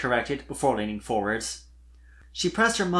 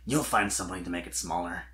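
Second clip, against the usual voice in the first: kind reassurance; 7 semitones lower, 4 dB quieter, faster than usual. A narrator's reading. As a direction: lower and softer, gentle. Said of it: "he assured her kindly".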